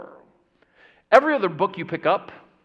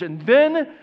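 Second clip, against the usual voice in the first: mock solemn sarcasm; 4 dB louder, slower than usual. Sarcastic buildup about seminary.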